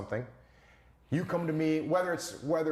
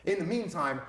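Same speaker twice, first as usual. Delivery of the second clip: mock shared outrage; 3 semitones higher than usual. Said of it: "And you go".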